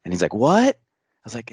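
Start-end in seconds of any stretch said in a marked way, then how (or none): 0.3-0.8 loud, high questioning "what?"; hard-of-hearing dad. Retold or imitated. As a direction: imitate a dad who can't hear. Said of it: "my dad's a little hard of hearing".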